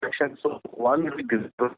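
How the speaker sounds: choppy, dropping-out line; speech breaking up over a bad connection; glitching audio. Real, not acted. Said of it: "your audio is breaking from your line".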